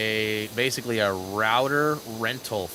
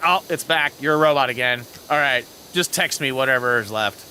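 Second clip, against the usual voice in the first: annoyed dad; 6 dB louder than usual. Retold or imitated. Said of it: "he'd get so mad".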